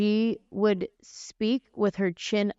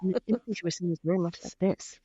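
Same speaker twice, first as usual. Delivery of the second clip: fast front-of-mouth speech; 3 dB quieter than usual. Shown as a demonstration. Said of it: "come in the front of her mouth".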